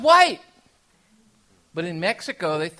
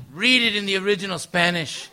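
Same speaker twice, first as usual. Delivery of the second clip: imitating dad; 3 semitones higher, 8 dB louder than usual. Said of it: "like this".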